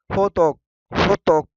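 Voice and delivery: होतोक with a firm, pressed त; pressed demo. Shown as a demonstration. Teacher drilling students on a pressed sound, firm. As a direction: punch the त in होतोक. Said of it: "दबा के बोलना है".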